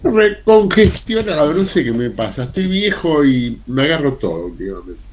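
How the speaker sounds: stuffed-up congested voice; talking through a blocked nose. Real, not acted. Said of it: "estoy muy congestionado".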